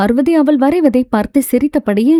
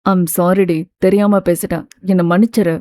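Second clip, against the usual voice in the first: longing plea; 5 semitones lower than usual. Acted. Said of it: "ஏக்கமாய் கேட்க".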